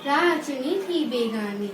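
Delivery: rhythmic, sing-song school recital; poem recitation. Real, not acted. Pupil presenting a Children's Day poem to the assembly, sing-song recitation. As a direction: chant each verse in a lilting, regular beat. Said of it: "एक कविता प्रस्तुत करने जा रही हूँ".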